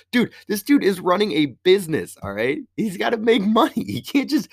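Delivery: high-pitched incredulous protest; exasperated explaining. Retold or imitated. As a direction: plead common sense with the voice climbing, then give up. Arguing that the owner needs money.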